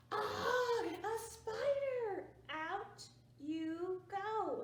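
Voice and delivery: high, loud, slow ah of fright; hammed-up yell at a spider; startled shout. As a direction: shoo the spider out loudly. Family yells at spider.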